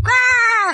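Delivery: short hammed-up cry of anger; angry yell. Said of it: "He's angry".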